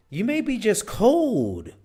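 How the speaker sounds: high, loud, slow mock cold voice; mock shivering cold. Shown as a demonstration. Demonstrating crossed arms as just being cold. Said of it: "If you're doing this".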